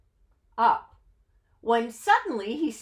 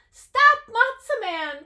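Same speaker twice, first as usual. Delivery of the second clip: high loud cry; crying out stop; 14 semitones higher, 9 dB louder than usual. Acted. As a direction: call out after him. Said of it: "cried Cousin Tilly".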